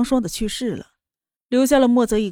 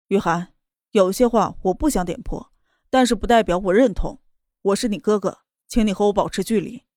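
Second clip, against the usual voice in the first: cold. Acted. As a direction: set a cold firm boundary. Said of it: "冷声道".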